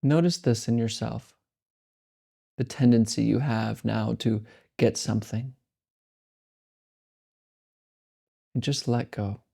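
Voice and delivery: slow, calm meditation guidance with long pauses; guided meditation. Acted. Teacher guides listeners through meditation, slow and calm. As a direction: ease listeners into letting go.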